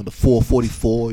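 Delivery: New York accent. Shown as a demonstration. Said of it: "I had to say it with my New York accent".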